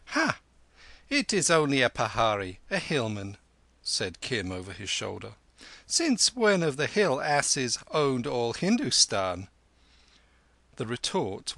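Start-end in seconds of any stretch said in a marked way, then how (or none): 0.1-3.4 scornful. Acted. Kim scoffs at hillman. 5.9-9.5 scornful. Acted. Kim insults the hillman.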